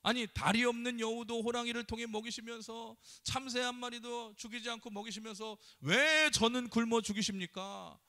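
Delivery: a man confronting Jesus in mild mock anger; complaining to Jesus about starving, mildly aggrieved; retold angry complaint. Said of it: "화가 나가지고 따지면서".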